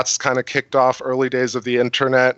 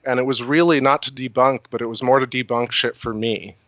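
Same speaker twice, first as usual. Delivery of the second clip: tipsy. Real, not acted. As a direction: talk like you're a little tipsy. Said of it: "Sorry, I'm a little tipsy".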